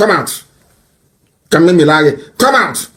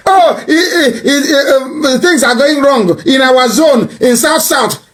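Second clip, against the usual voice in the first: hammed-up crying to mock the elder; mock pleading cry; 10 semitones higher, slower than usual. Elder's letter mocked as a crying plea.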